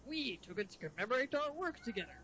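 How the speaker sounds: lightly voiced cartoon crab boss; cartoon sea-captain lilt; Mister Krabs. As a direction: play the chief as a cartoon crab. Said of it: "the Mister Krabs voice".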